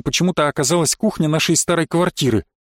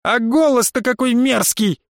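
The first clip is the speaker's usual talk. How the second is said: jeering woman; 8 semitones higher than usual. A narrator's reading.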